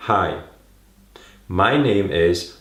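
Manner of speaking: drawn-out, too-slow nervous greeting; mock overly slow intro; exaggeratedly slow. Shown as a demonstration. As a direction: stretch every word painfully slow. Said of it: "you start doing this".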